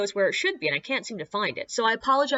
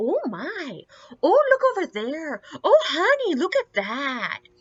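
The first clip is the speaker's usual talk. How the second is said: badly done, pitched-up, put-on Minnesota accent; 7 semitones higher, 4 dB louder than usual. Speaker mocks a sweet tourist couple walking around; bad Minnesota accent. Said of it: "do a bad Minnesota accent when I'm making fun of tourists".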